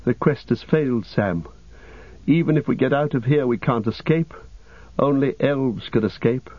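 understated anguish of a lost quest; despair. Acted. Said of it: "despair overwhelmed him".

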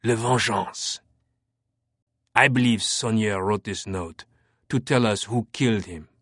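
lightly voiced French inspector, whispery. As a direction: cut the air with a whispery edge. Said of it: "Fache's whispery voice sliced the air".

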